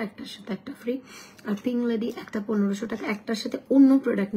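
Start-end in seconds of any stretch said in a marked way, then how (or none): 0.0-1.0 softer, conspiratorial sales whisper; whispered offer. Real, not acted. Selling cream to viewers with a whispered bonus. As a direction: whisper the freebie like a secret deal. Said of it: "offer said in a whisper".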